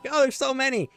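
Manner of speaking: high, loud hammed-up battlefield panic; mock panicked soldier. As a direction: play the soldier pinned down under fire, overacted. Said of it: "That's what I do".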